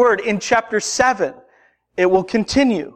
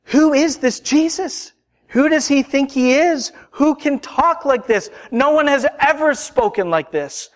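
higher-pitched, indignant questioning; incredulous challenge; 6 semitones higher than usual. Acted. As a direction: voice the crowd's disbelief, pitched up. Voicing everybody's challenge to Jesus.

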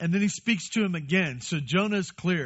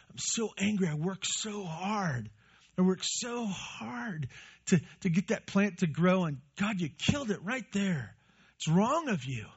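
mock angry complaint; 4 semitones higher, 3 dB quieter than usual. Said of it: "And he would have said".

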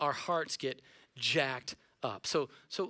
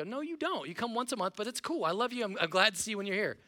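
teasing correction; 4 semitones higher than usual. Retold or imitated. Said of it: "And I go".

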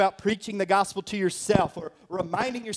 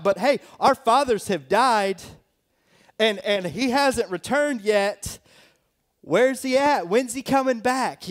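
mocking scoffers; 5 semitones higher than usual. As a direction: taunt them, he's not back yet. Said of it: "he starts mocking them".

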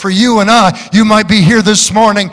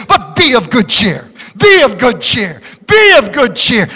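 building proclamation. Acted. Preacher repeats, building to shout.

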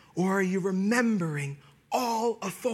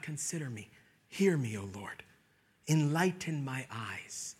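quiet prayer; 4 semitones lower, 4 dB quieter than usual. Acted.

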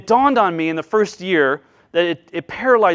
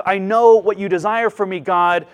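louder, mildly defiant rebel voice; rebel's pushback; 5 dB louder than usual. Acted. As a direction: push back at God a bit louder. Preacher acting out the rebel.

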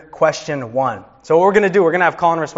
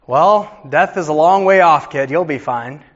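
breezy, dismissive reassurance, a touch louder; mock false comfort; 3 dB louder than usual. Preacher mocking a hollow answer to a scared child, breezy and dismissive. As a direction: brush off the fear lightly. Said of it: "What do you say to a kid".

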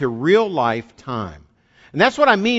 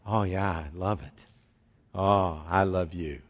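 wife's reply; 7 semitones lower, 7 dB quieter than usual. Retold or imitated. Wife answering husband's question.

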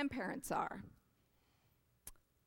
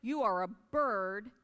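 storybook reading; 2 semitones higher than usual. A narrator's reading. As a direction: read it like a bedtime picture book. Reads picture book aloud.

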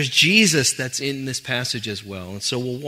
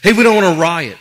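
mock riot warning; 5 semitones higher, 13 dB louder than usual. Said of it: "people come by going".

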